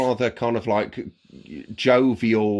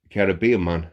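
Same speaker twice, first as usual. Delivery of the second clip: bad Caribbean accent; 5 semitones lower than usual. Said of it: "meant to be Caribbean accent".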